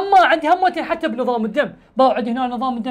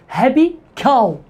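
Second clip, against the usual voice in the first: slow demo; slower than usual. Shown as a demonstration. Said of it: "هبي كاو معناته بقرة".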